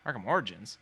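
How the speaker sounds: retold baffled query; puzzled echo. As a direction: echo it back as a confused question. Actor puzzled by fans' answer.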